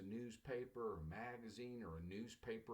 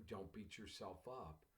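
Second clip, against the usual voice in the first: soft repeat; 5 dB quieter than usual. Shown as a demonstration.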